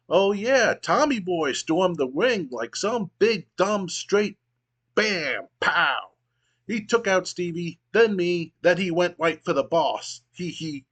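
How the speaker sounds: high, gleeful and giggly; giggling maniac voice. Acted. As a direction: cackle through it like a lunatic. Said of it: "giggling maniacally".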